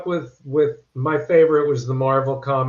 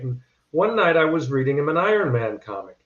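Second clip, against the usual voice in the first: ordinary talk, nothing marked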